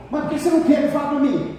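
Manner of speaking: pleading husband. Retold or imitated.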